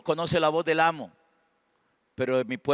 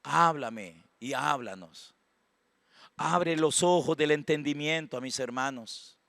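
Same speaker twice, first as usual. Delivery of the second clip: quietly petition God, slowing on the appeals; soft prayer; 6 dB quieter than usual. Retold or imitated. Pastor praying to the Lord for his congregation, soft prayer. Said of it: "oro yo por ustedes todos los días".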